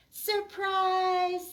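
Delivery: high, loud joyful shout; shouted surprise. Acted. Lulu and Charlie surprise the waking Oliver with a loud shout. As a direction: burst out with it. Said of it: "they shouted".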